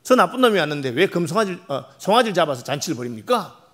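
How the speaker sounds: put-on the older son's angry complaint to his father. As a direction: pour out the resentment at his father. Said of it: "이렇게 화를 냈습니다".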